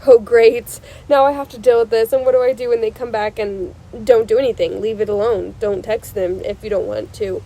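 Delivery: loud annoyed complaining; mock the overwhelmed ex, loudly; exasperated rant. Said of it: "somebody that's like".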